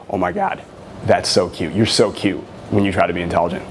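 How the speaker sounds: playful mock-condescending tease; teasing. Shown as a demonstration. Dating coach demos a playful tease to a girl, teasing. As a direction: tease her like she's adorable. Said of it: "I say it that way".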